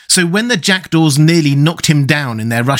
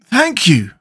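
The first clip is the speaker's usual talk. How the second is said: grateful; 7 semitones higher than usual. A narrator's reading. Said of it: "returned the Scarecrow gratefully".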